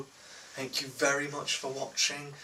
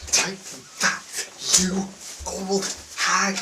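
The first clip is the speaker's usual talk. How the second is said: mocking chav voice; 4 semitones higher, 4 dB louder than usual. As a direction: taunt her like a cocky chav. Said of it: "the other guy's going".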